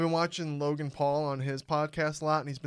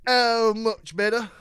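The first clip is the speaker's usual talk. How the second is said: loud put-on voice; 7 semitones higher, 9 dB louder, slower than usual. Continues put-on voice.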